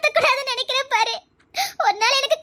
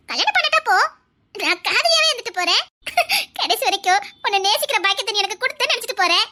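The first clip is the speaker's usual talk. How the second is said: playful threats with laughter breaking through; laughing tease. Acted. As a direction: tease him, giggling. Teasing him, laughing through it.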